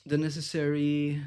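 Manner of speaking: losing the words mid-sentence; halting, searching for words; brain freeze. Real, not acted. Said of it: "my brain is freezing so hard".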